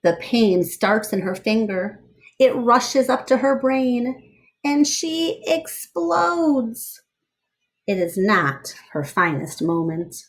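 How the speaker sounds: lively read-aloud storyteller voice; story narration. Acted. Reading a picture book aloud to children, lively storyteller voice.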